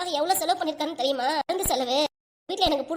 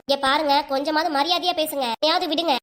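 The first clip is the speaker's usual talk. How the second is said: louder, heated scolding of his wife; husband rebuking his wife, raised angry voice; 3 dB louder than usual. Acted. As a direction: demand respect for his mother, voice raised. Husband scolds wife to respect mother.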